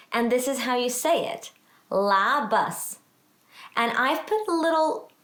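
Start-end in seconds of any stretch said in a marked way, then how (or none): 1.9-3.0 Labas with the accent on LA; stress on first syllable of Labas. Shown as a demonstration. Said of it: "where the accent of the word goes".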